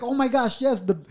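high, stammering realization; high-pitched mock panic; retold alarm. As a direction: act out a startled discovery. Retold discovery of wet mattress.

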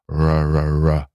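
R as a drawn-out Cornwall and Devon "rrr"; West Country R. Shown as a demonstration. Showing the American R, like Southwest English. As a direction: repeat a smooth Irish or West Country R. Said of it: "similar sound to Southwest English".

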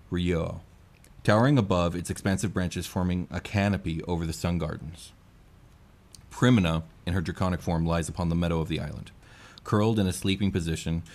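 calm, steady scene-setting; scene narration. Acted. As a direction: paint the garden for the players.

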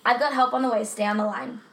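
lightly acted emergency dispatcher; a hint of level, businesslike call-taker; monotone dispatcher. Co-host playing dispatcher to a caller, mildly monotone. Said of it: "I did my best monotone voice".

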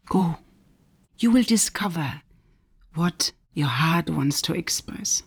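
inner voice. Retold or imitated. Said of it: "my inner voice replied".

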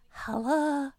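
put-on high baby hello in a Yorkshire accent. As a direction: imitate a baby trying out Yorkshire vowels. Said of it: "he says it in Christian's accent".

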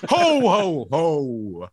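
belly-laugh like Santa Claus. Acted. Roasting players in a Santa voice, ho ho ho.

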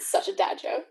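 laughing through the words; giggling at a dad joke. Real, not acted. Laughing at a pun.

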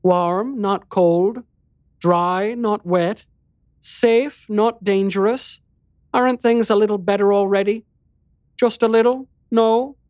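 high, playful coaxing, rising questions; gently teasing. Acted. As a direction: coax a smile from a sulky child. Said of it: "in a gently teasing tone".

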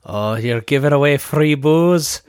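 a failed, hammed-up English accent, rising at the end; mock British listeners, badly. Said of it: "That was not an English accent at all".

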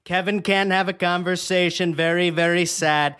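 lightly done Trump voice, boastful and repetitive; a hint of Trump hyping his own product; Trump impression. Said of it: "that was a very impressive Trump".

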